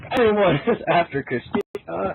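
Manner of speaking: slow, mock-triumphant announcement; grand proclamation. Mike reveals his big plan to Sean, in a slow mock-grand proclamation. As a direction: proclaim it like a great discovery. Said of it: "Mike proclaimed as if he had discovered the elixir of life".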